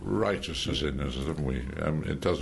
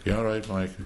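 put-on Irish accent; 4 semitones higher than usual. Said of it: "who's an Irish".

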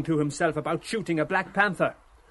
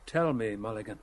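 low, soft question opener; quiet; 7 semitones lower, 7 dB quieter than usual. A narrator's reading. Stephen asking Mulligan something, quietly. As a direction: speak quietly and lower the pitch. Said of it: "Stephen said quietly".

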